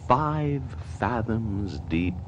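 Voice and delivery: very slow, soft and deliberate; slow, hushed. Acted. Murderer planning to bury the secret, slow hushed. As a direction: lay the words down quietly.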